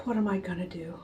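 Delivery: unvoiced worried whisper. Girl torn over the egg, whispered. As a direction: wonder it under your breath. Girl troubled, inner thought.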